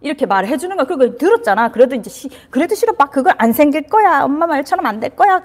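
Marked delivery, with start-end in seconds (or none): 2.5-5.4 put-on upset child. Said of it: "하고 울고 있는데".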